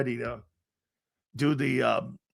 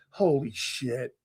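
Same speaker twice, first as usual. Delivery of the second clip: laughing disbelief; 7 semitones higher, 7 dB quieter, slower than usual. Retold or imitated. Shock at teammate's speech blunder.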